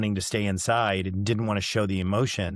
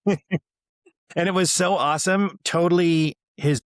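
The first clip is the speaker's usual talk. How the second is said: real laughter breaking into the words, high and louder; laughing; 7 semitones higher, 4 dB louder than usual. Real, not acted. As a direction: laugh it out with proud delight. Laughing at son's surprise speech.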